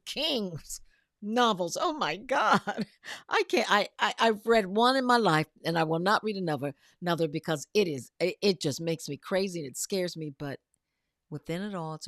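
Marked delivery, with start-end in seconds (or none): 1.8-10.3 excited alarm. Real, not acted. Host recoiling at Stephen King novels, loud and excited. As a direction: gush as if the book still spooks you.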